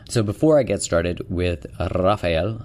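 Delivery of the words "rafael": "Rafael" said with a rolled R; playful flourish on "Rafael", R rolled; relished name. Real, not acted. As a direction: trill the R at the start of "Rafael". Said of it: "I just like saying it like that".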